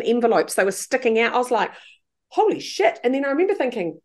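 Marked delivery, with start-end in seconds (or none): 2.3-3.0 retold shock. Mother seeing her thin daughter, shocked. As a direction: recall the moment of shock.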